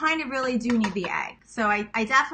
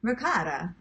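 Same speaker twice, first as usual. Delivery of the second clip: Italian pronunciation; 3 semitones lower than usual. Shown as a demonstration. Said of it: "They say".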